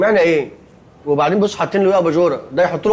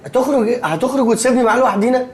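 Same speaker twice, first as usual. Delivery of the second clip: laughing; 4 semitones higher than usual. Acted. Laughing alarm.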